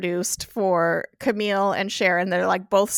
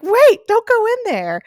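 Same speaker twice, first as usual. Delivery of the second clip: high, loud imitation of a panicked plea; retold alarm, pitched way up; urgent mock cry; 12 semitones higher, 9 dB louder than usual. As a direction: call it out as if blocking a door. Retold panicked blocking of door.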